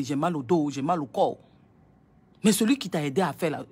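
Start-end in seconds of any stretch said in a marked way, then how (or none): 0.0-1.4 mock moaning. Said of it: "vous gémissez".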